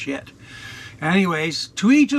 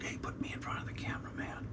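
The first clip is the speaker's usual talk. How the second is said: cat voice; 16 dB quieter, faster than usual. Retold or imitated.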